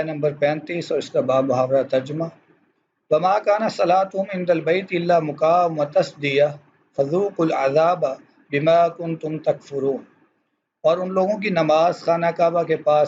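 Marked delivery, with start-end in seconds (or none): 3.1-10.0 quick, measured Arabic verse recitation; Quran recitation. Acted. Teacher reading a Quran verse to students, reciting.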